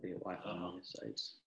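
choppy dropping connection; breaking up space radio. Real, not acted. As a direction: voice cutting in and out over a bad line. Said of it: "You're breaking up on us".

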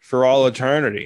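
slow, measured divine threat; lightly voiced solemn God, each word drawn out; God's pronouncement. God warning the man who walks away, slow and solemn.

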